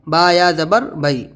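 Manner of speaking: name the letters, then بئی ending like Bombay's "bai"; بئی closed on a falling "ai" glide; spelled-out pronunciation. Shown as a demonstration. Teacher tells students to read that same ya, spelled-out pronunciation. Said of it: "اسے ہی پڑھنا ہے".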